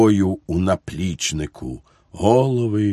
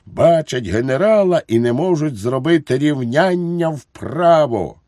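high, loud parade-ground bawling, easing slightly at the end; angry shouting; 10 semitones higher, 4 dB louder than usual. A narrator's reading. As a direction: yell abuse at the rabble in a much higher voice. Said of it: "кричить". (сердитий начальницький крик високим голосом)

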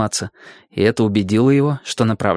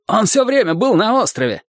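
high-pitched outburst from a ferryman; a restrained storybook cry; 10 semitones higher than usual. A narrator's reading. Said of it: "крикнул Хью".

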